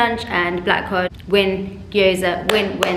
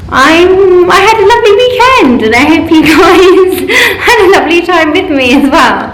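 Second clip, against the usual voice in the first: nervous laugh; 7 semitones higher, 13 dB louder than usual. Real, not acted. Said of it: "I don't know why I'm doing a really nervous laughter".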